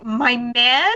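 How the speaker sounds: puzzled echo, rising sharply in pitch; mock-innocent confusion; baffled Aiko. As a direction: repeat it back as an incredulous question. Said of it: "she doesn't understand".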